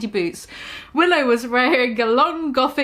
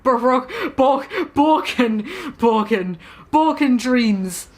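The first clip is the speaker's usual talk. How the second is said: stumbling read. Real, not acted. Stumbling over band name.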